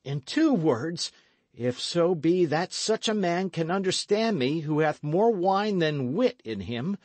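high, loud, building furious order; stern ringing command. Acted. Young captain ordering the drunk outlaw out, angrily. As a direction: drive the drunk out, rising to a shout. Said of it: "the ring in Dick's voice".

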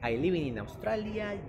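"Australia" with full Au and l, drawn out slowly; slow learner's English, "Australia" said the Spanish way; Spanish-accented English. Retold or imitated. Teacher quoting his beginner self, Spanish-accented English. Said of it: "yo decía".

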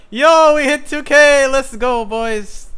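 high, loud, slow hype shout; frat bro hype. Real, not acted. Celebrating hitting two thousand.

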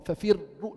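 ففروا with a doubled, unrolled ra; controlled ra. Shown as a demonstration. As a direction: grip the tongue on the ra of ففروا. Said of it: "لاحظ اللسان يطلع وبيكمش".

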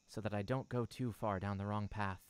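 normal talking voice

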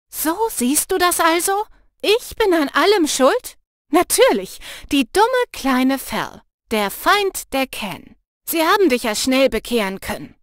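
laut und höher, bitter; „die dumme kleine Fel“ langsam und höhnisch; wütend gekränkt. Acted. (gekränkte Freundin schimpft laut)

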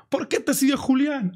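high, drawn-out frantic imitation; mock desperate yelling. Friend demanding answers from birthday girl, mock desperate yelling. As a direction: plead like a desperate friend, yelling without full volume. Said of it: "Desesperado a los gritos".

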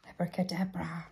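whispered magic spell; whispering. Acted. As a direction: breathe the spell secretly. Magic spell over the book.

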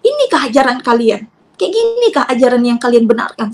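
retold reproach, pressed hard; angry challenge. Mother challenging the in-laws' teaching, angry. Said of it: "Marah saya pada saat itu".

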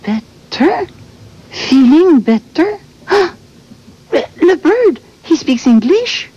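put-on puzzled English with a thick Québécois accent; French-Canadian accent. Bird puzzled by talking friends, French-Canadian accent. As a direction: echo the strange question in broken English. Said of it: "Why does she talk like that?".

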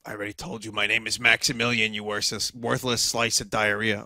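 fast, snooty put-on voice; toad character voice. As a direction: rattle it off as an indignant toad. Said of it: "I forgot to name all the goddamn toads".

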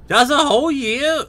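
high, loud burst of amazement; surprised. Real, not acted. Streamer reacting to a viewer's year of support, surprised. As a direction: exclaim it high and loud in astonishment.

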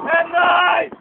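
loud cheering shout; hype shout. Real, not acted. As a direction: shout it out on request. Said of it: "Dá um grito aí". (grito de empolgação)

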